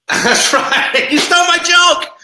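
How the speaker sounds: high laughing words. Real, not acted. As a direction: laugh through the line. Laughing at a stolen joke.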